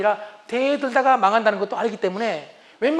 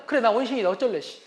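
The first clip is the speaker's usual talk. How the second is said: defiant wife; 3 semitones higher, 4 dB louder than usual. Retold or imitated. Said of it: "이렇게 대항을 해".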